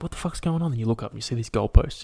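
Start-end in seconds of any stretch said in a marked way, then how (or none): 0.0-0.7 high-pitched baffled question; mock panic. Podcaster voices the ant as people walk past, mock panic. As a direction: pitch it up in acted alarm. Ant's baffled reaction, acted.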